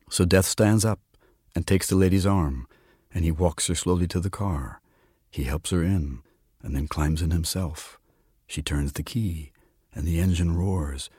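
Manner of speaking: measured storyteller's reading; quiet literary narration; story narration. A narrator's reading. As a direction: read the tale aloud, unhurried. Reads a story aloud.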